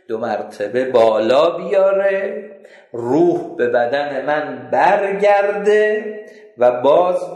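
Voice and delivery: the damned man lamenting his endless torment; slow lamenting confession. Acted. Ibn Muljam telling the narrator his punishment, slow lament.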